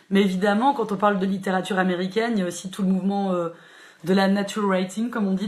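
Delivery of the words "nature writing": English words said with a French accent. Real, not acted. Host apologising for her English to the book club, French-accented English. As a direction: say nature writing the French way, not the English way. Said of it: "Désolée pour mon accent, euh, catastrophique".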